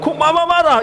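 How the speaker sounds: high-pitched indignant husband, hammed up; acted marital quarrel. Husband challenging his angry wife, mock indignant. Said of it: "Akhirnya suami bilang".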